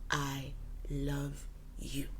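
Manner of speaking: slow, soft whisper; whispered I love you. Shown as a demonstration. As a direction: breathe "I love you" slowly and tenderly. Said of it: "always tell your partner".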